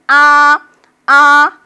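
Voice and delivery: loud, high, sustained "아"; high level tone. Shown as a demonstration. Teacher drilling the arm exercise, high level tone. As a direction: hold "아" level like outstretched arms. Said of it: "일성은 두 팔 나란히".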